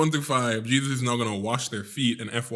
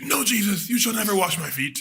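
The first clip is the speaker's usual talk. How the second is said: mock Peter protest; 7 semitones higher than usual.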